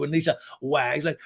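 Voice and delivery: ordinary delivery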